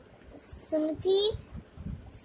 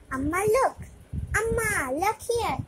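excited call; 5 semitones higher than usual. Acted. Child calls mother to see plant.

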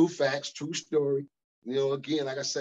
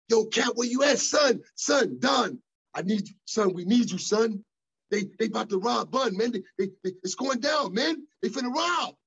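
much higher, louder excited yelling imitation; imitated hollering; 9 semitones higher, 3 dB louder than usual. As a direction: holler like a frantic friend on the phone. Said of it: "But he hollering and screaming".

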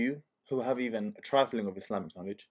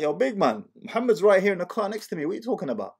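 confused; 7 semitones higher, 4 dB louder, faster than usual. Retold or imitated. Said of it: "I'm like".

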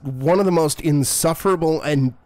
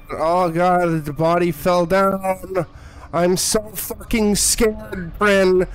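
higher, slow, shaky-edged fear as the body drops; scared voice; 4 semitones higher, slower than usual. Real, not acted. Streamer spooked by a falling body in a horror game, scared and strained. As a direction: let real fright creep into every word. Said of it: "Can't you hear it in my voice how fucking scared I am".

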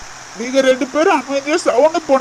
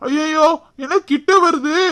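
startled alarm; 3 semitones higher than usual. Acted. Snake suddenly moves toward the man.

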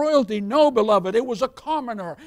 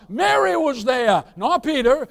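building preach; 3 semitones higher, 5 dB louder than usual. Real, not acted.

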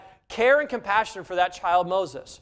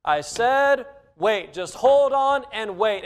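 impatient parent; 2 semitones higher, slower than usual. Retold or imitated. Parent scolding a child.

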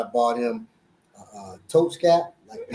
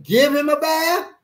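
correcting her, slow; 10 semitones higher than usual. Retold or imitated. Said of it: "I said".

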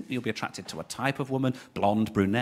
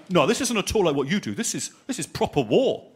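solemn soldier; 3 semitones higher, 3 dB louder than usual. Retold or imitated. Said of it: "he went".

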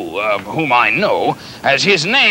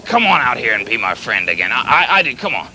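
apologetic coaxing; 4 semitones lower than usual. Acted. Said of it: "I'm sorry about that".

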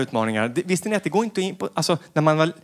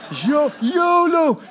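high, very slow, loud mock shout; high, very slow, loud mock partier; mock yolo yell; 10 semitones higher, 3 dB louder, much slower than usual.

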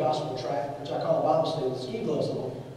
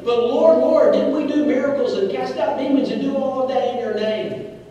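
pleading; 6 semitones higher, 4 dB louder than usual. Acted. Lost person pleading with Jesus.

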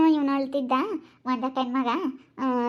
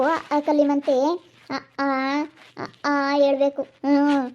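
soothing. Acted. Helper coaxing crying child with egg and payasa, soothing. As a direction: comfort a small child with promises.

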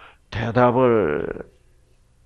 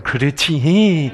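put-on Jeolla accent; much slower than usual. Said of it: "전라도는 전혀 안 무뚝뚝합디다".

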